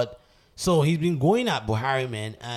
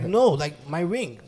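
higher, louder retold protest; raised-voice mock indignation; insistent protest; 5 semitones higher, 4 dB louder, slower than usual. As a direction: imitate an incredulous owner objecting. Retold Kraft protesting to Putin.

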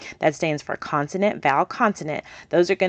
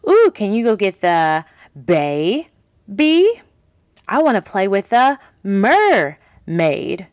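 playful game voice; 5 dB louder, slower than usual. Shown as a demonstration. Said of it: "incorporate it into your game".

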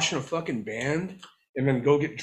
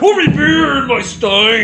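shouting; 11 semitones higher, 11 dB louder than usual. Pretend. Joins the mock demand.

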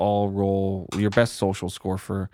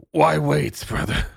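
challenging brother; much slower than usual. Acted. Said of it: "And he's like".

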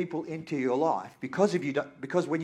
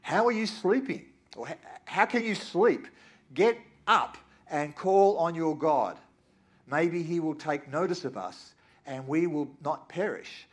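a hint of an alarmed sea captain; lightly voiced captain shaking him awake; urgent captain; 3 semitones higher, 4 dB louder than usual. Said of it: "the captain went to him and said".

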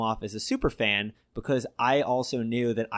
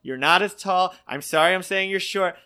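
flustered apology; 7 semitones higher, 6 dB louder than usual. Retold or imitated. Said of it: "And he went".

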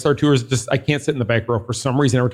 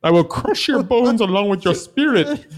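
barbarian; 6 semitones higher than usual. Pretend. Plays Bane villain line.

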